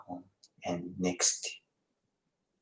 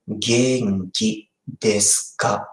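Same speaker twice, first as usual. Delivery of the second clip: "Genki desu ka" spoken slowly, word by word; slow model; slower than usual. Shown as a demonstration. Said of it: "pronounce like".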